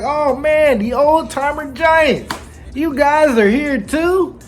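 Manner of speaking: Luffy voiced. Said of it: "Luffy's like".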